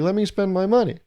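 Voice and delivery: high-pitched indignant complaint, settling at the end; hammed-up huffy outburst; mock anger. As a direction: protest like a fed-up customer. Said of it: "Do they just get angry".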